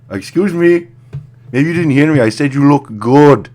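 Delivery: high, loud, hammed-up yell; mock shout. Guy yelling a compliment at a gym girl, hammed-up loud. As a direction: bellow the pickup line like a wounded ego.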